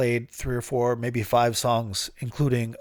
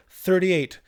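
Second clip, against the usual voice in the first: high, louder triumphant call; proud shout; 8 semitones higher, 5 dB louder than usual. Real, not acted. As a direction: shout the number to the heavens. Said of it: "I scream it to the heavens".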